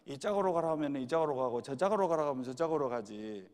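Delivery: playful retelling in Jeolla dialect. Retold or imitated. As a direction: say it as a Jeolla granny would, in dialect. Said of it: "전라도 버전으로 하면요".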